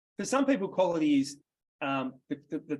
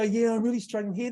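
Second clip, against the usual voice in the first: mock struggling customer; 6 semitones higher, 4 dB louder than usual. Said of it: "They'll go".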